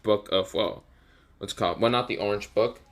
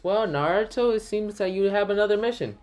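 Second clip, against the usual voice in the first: Tsunade's voice; 10 semitones higher than usual. Acted. Tsunade assigns a new mission.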